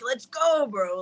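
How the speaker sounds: hint of a pirate hype man; mock pirate pep talk, only lightly put on. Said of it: "he sounds like a freaking pirate".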